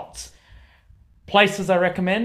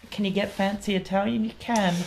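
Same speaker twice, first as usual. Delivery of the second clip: whispered aside; 5 semitones higher, 4 dB quieter, faster than usual. Real, not acted. Aside about fancy Italian food.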